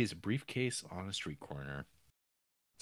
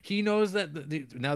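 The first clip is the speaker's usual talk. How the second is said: mock panic; 9 semitones higher, 6 dB louder than usual. Panic at discovery retold.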